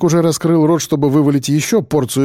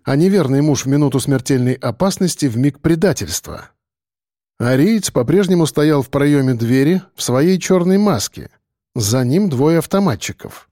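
usual speaking voice

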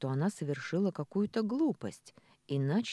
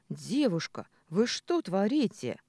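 возмущённый вопрос, медленнее; с упрёком, растягивая «вы что творите»; возмущённо; 4 semitones higher, 4 dB louder than usual. Acted. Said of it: "возмущённо спросила девица". (возмущённо спрашивает у соседки)

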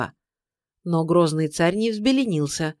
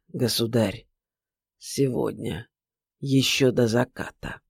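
much lower and softer, each word dropped like a stone; weighty and heavy; 7 semitones lower, 4 dB quieter than usual. A narrator's reading. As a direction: roll the words like heavy stones. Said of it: "проговорил веско, тяжело, словно камни перекатил".

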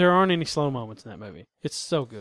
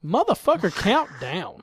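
higher-pitched mock outburst at the game clock; mock exasperation; 5 semitones higher, slower than usual. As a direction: act fed up, pitch jumping up. Acts out yelling at the clock.

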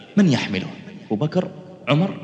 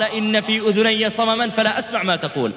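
higher, scornful reply with a laugh in it; mocking with a laugh; 8 semitones higher than usual. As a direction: laugh at the tyrant as you say it. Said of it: "فنظر إليه حبيب مستهزئا".

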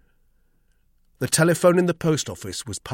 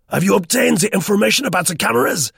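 high, loud, irritated squeak; irritable squeaky voice; 10 semitones higher, 7 dB louder, faster than usual. A narrator's reading. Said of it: "His voice squeaked irritably".

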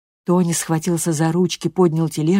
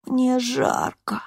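raspy whisper; 7 semitones higher, 4 dB quieter, much slower than usual. A narrator's reading. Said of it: "прохрипел он".

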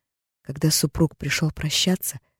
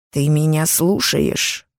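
hissed; much slower than usual. Acted. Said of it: "прошипел мужчина".

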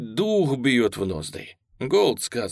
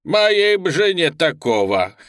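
louder, higher, laughing as he says it; clowning soldier joking with a laugh; cackling joke; 6 semitones higher, 6 dB louder than usual. A narrator's reading. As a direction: crack a joke and start to laugh. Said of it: "визгливо хохотнул".

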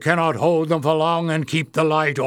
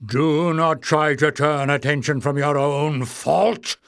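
indignant cry; 3 semitones higher, 3 dB louder than usual. Acted. Warren asserting his office over Clef, indignant. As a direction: demand respect, indignant. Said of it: "cried the goblin called Warren".

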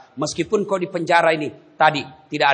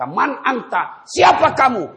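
frightened question; 10 semitones higher, 6 dB louder, slower than usual. Acted. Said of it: "jenazah ini berkata".

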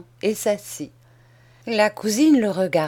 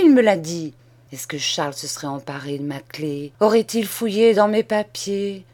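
mild despair. Acted. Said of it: "s'écria ... d'un geste de désespoir".

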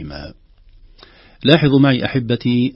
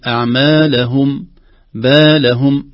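أعمالهم with a louder هاء; stress on the هاء; 3 semitones higher, 6 dB louder, slower than usual. Shown as a demonstration. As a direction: hit the هاء in بالهم. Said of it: "على الهاء تزيد".

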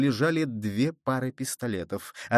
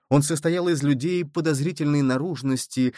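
usual speaking voice

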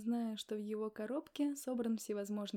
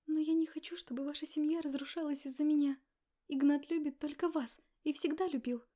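higher, louder tearful plea, half sobbing; a young woman sobbing bitterly to her lover's wife; bitter sob; 5 semitones higher, 6 dB louder than usual. A narrator's reading. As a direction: plead through tears, voice near breaking. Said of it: "горько всхлипнула девушка".

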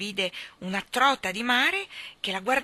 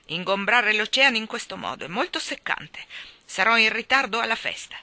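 loud, indignant big-fish scolding; infuriated; 4 semitones higher, 7 dB louder than usual. A narrator's reading. Hake late for the party scolds children, infuriated. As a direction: scold loudly with irritation. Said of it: "Guardò infuriato i due bambini".

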